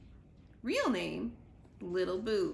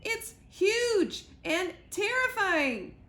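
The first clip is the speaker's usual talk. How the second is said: high, loud, slow terrified squirrel; fearful cry; 10 semitones higher, 6 dB louder, slower than usual. Acted. Squirrel crying out the description to Sugar, terrified. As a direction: wail it out in fear. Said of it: "cried the squirrel".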